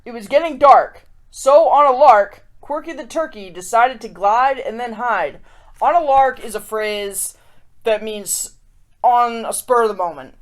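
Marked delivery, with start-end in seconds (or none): 0.1-5.4 storybook reread. Shown as a demonstration. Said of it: "here's the context".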